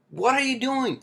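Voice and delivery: high yelling "What are you doing?"; shouting at the cab driver in alarm; screamed. Retold or imitated. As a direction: yell it at the driver. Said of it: "I screamed at him".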